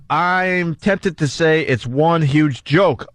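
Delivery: drawn-out reading of a quote; quoting slowly. Retold or imitated. Host reads the police chief's quote, slowly. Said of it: "Oliko says".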